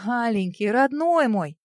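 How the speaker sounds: ordinary delivery, nothing marked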